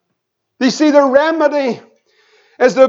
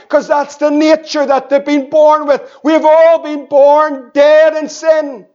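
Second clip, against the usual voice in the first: emphatic preaching. Acted. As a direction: preach it out, slowing on the key words. Preaches at full force.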